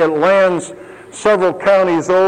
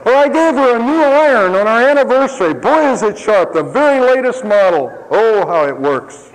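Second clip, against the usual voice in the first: proud boasting husband; 5 semitones higher than usual. Retold or imitated. Preacher mocks a husband bragging about a gift, hammed-up pride. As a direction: brag like he's done something grand.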